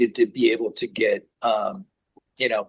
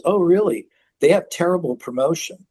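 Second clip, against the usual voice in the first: raised, matter-of-fact mock reply; blunt put-down; 7 semitones higher, 3 dB louder than usual. Rick Rubin answering news of the deal, blunt. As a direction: imitate an instant, tactless verdict. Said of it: "he just says it like that".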